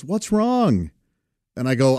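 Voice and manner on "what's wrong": niece asking. Retold or imitated. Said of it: "And she goes".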